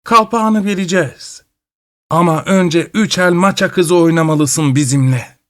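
high, strange cackling crone voice; shrill witch voice. A narrator's reading. The witch bargains with grandfather, high and shrill. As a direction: speak like a sly old witch. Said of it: "Cırlak bir sesle".

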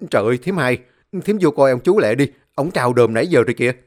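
loud, rushed call for help; urgent shout. Acted. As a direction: yell in alarm, fast. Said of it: "một người đàn ông la lên". (hét lên hoảng hốt)

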